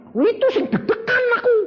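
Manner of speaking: high, loud laughing admission; nervous laugh. Real, not acted. Preacher admitting his nerves, laughing high.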